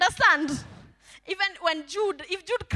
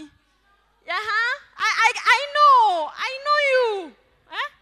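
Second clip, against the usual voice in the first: a higher voice, Jesus reassuring the listener; Jesus speaking; 8 semitones higher, 6 dB louder, slower than usual. Acted. Preacher voicing Jesus reassuring the insecure believer. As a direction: answer gently, as Jesus who knows them.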